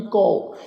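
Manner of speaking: ਕਉ pronounced "kau"; kanaura vowel. Shown as a demonstration. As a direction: demonstrate ਕਉ with an "au" vowel. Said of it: "ਕਨੌੜੇ ਦੀ ਮਾਤਰਾ ਲਗਾ ਕੇ".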